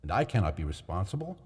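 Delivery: a hint of mock worry for his friend; Montresor, feigned concern. A narrator's reading. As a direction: narrator voicing Montresor's sly concern.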